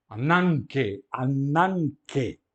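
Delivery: "Ananke" with the gamma read as an n, stressed on "nan"; gama lido como nu. Shown as a demonstration. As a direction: say "ananke" slowly and firmly, an n sound before the k. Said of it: "gama como nu". ("ananke" bem articulado, com o gama soando como n)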